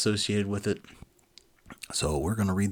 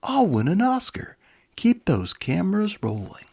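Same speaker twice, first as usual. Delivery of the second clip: much higher and louder, thrilled; rejoicing director; 12 semitones higher, 7 dB louder than usual. Acted. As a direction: crow with delight like a mad filmmaker. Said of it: "he rejoiced".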